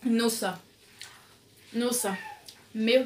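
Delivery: hot breathy gasps; fanning mouth while talking; mouth burning from spice. Real, not acted. Seen 2: Eats noodles before; fans her open mouth from spice while speaking.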